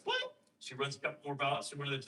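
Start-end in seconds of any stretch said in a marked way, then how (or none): 0.0-0.4 squeaky shocked "What?" leaping far higher; hammed-up shocked clerk. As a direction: imitate the clerk's stunned squeal. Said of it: "and she's like".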